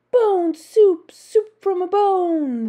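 high, loud drawn-out roar; roaring crowd. A narrator's reading. Hungry crowd of monsters demanding soup, roaring. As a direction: roar the chant at full voice. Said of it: "they roared".

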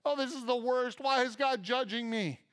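mock trembling panic. Preacher mimicking a fearful churchgoer, mock trembling. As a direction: play the anxious soul who sees judgment in a gift. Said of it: "and start trembling".

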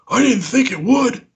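very high, mock-frantic whine; panicked protest. Noah answering the blame for asking it down, high panicked imitation. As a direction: imitate a friend squealing in his own defense. Noah defends himself when accused.

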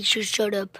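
hissed whisper; whispered hush; whispered shush. Real, not acted. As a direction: whisper it sharply to hush them. Telling sibling to hush.

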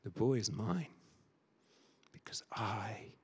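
soft, low, fading into a whisper; low quiet claim trailing to a whisper; hushed claim. Acted. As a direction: say it quietly, the last words whispered. Man claims the rescued boy.

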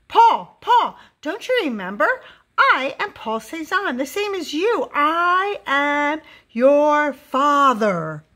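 high, loud call slowing to a grand declaration. A narrator's reading. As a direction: call after a fleeing child, stretching the last words. Big man calls to fleeing son.

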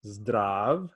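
Zdrav-stvuj with a clear break at the hyphen; broken-up syllable demo; split into syllables. Shown as a demonstration. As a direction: chop Zdrav-stvuj in two. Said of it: "Together make".

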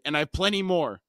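half-hearted acted shout; mild shout. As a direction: retort with a touch of a yell. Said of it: "She shouted".

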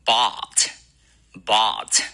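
bought said slowly with an open ah vowel; American bought. Shown as a demonstration. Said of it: "它需要发成".

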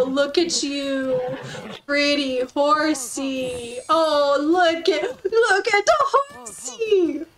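slow, doting coo at the horse; drawn-out lovestruck cooing. Real, not acted.

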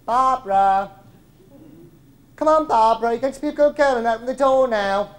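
high, loud coaxing through a door; piping woman's voice. Acted. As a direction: coax her like a naughty child. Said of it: "a woman's voice piped up".

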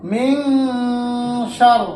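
মিং hummed long, then a firm সার; ghunnah. Shown as a demonstration. Teacher pointing out ghunnah, long nasal মিং before সার. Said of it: "এখানে একটি গুণ আছে".

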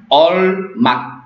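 All marque said slowly, All held long before marque; drawn-out word model. Shown as a demonstration. Teacher repeating a Turkish verb for learners, slow careful model. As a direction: stretch All, then place marque separately.

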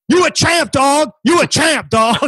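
high-pitched imitated street hype; admiring bystander. Dude with cell phone to the fighter, admiring bystander. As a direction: mimic an onlooker cheering the winner. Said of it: "And he goes".

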